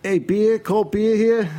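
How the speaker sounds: high loud ballpark beer call; stadium vendor hawking. Shown as a demonstration. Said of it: "What does she have to say".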